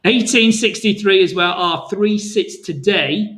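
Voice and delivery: slowed down, each number spelled out clearly. Shown as a demonstration. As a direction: ease off the pace so viewers catch the level. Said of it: "Let me say that a bit more slowly".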